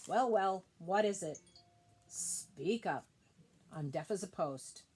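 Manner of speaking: put-on lightly scratchy old owl, woken and grumpy; a hint of a rasp, a cross old bird roused from sleep. Woken owl grumbling at the crying kangaroo, lightly scratchy. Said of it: "he said in a scratchy voice".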